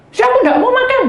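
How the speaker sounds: high sulky refusal; mock sulky husband. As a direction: pout it out.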